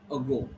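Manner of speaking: "ago" with an unstressed schwa first; barely touch the a in "ago"; light first vowel in "ago"; weak A. Shown as a demonstration. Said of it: "weak A".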